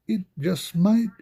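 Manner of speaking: high teasing whisper; mock mysterious whisper. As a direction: hush it like a secret reveal. Whispered tease over music.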